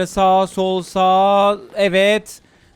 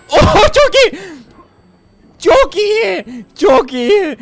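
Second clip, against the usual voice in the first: much higher and louder cry of joy; thrilled shout; 9 semitones higher, 6 dB louder, much slower than usual. Real, not acted. Gamer to viewers after a great move, thrilled shout. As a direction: shriek with delight at the win. Big success in game.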